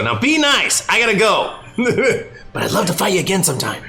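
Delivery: high, playful voice; Goku teasing the giant. Acted. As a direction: tease the giant before leaving. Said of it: "he gets his face to go".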